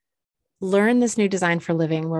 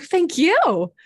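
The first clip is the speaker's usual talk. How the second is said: high, bright-sweet reply; 12 semitones higher, 6 dB louder than usual. Retold or imitated. To the grateful salon guy, high sweet reply. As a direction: answer back sweetly. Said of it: "I'm like".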